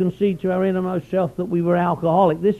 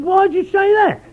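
high, loud offended question; indignant question; 13 semitones higher, 5 dB louder than usual. Retold or imitated. Newcomer offended by the old-timer, high indignant question. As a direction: demand why he'd say it. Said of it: "I said".

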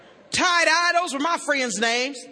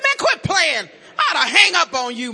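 irritated yell; 3 semitones higher, 6 dB louder than usual. Retold or imitated. Still thinks it is a prank.

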